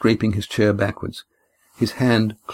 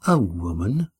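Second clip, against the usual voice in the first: disbelieving question; can't believe it's a woman; incredulous; slower than usual. A narrator's reading. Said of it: "Oron's voice was incredulous".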